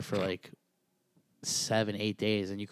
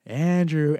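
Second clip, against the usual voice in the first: drawn-out name, louder; imitated wake-up call; 5 semitones higher, 10 dB louder, much slower than usual. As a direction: mimic a friend calling a sleeper, stretched out. Friend calling him awake, retold.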